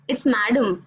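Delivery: Madam said MAD-um, flat English stress; correct pronunciation. Shown as a demonstration. Revealing the quiz answer to the audience, plain English Madam. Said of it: "someone told".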